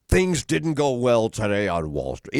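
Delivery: imitating an official business anchor, no kidding around; no-nonsense old newscaster. Old anchor telling viewers about Wall Street, official and no-nonsense. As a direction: deliver bad market news as a stern veteran anchor. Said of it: "he was gonna just tell you".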